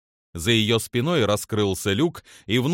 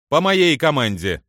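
firm command; 4 semitones higher, 5 dB louder than usual. Acted. Commander readies crew to fire.

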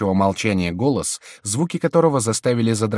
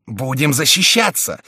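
raised, slow rallying cry; bold and decisive; 6 semitones higher, 5 dB louder than usual. A narrator's reading. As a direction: call out boldly and resolutely. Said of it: "смело и решительно вскричал Майен". (смело и решительно)

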